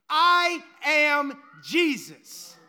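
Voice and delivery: slow, loud, weighty declaration; Jesus answering Saul with slow loud power; thunderous answer. Acted. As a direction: boom it out slowly. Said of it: "the answer came back and struck him".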